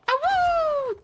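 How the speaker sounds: high howling awoo again; wolf howl. Acted. Second howl, same manner.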